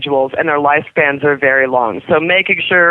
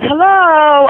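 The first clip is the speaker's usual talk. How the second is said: high, louder parrot hello; imitating the parrot; 10 semitones higher, 5 dB louder than usual. Owner shows how King O says hello, high parrot imitation. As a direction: copy the bird's squawky greeting. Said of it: "He says".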